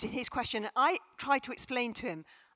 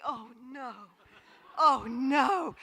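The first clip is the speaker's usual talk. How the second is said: despairing mother; 5 dB louder, slower than usual. Retold or imitated.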